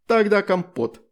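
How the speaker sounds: high loud triumphant cry; gleeful shout. Acted. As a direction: shout the new nickname gleefully. Astrid shouts a new nickname. (радостный детский выкрик)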